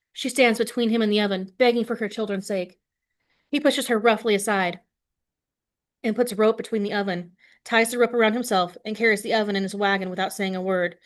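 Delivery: expressive read-aloud to a class; story narration. A narrator's reading. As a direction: read the story to students with feeling. Teacher reads novel aloud.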